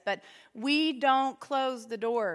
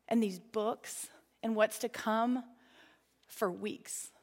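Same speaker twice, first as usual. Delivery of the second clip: whisper; 3 semitones lower, 5 dB quieter, slower than usual. Real, not acted. Intimate confession about leaders praying.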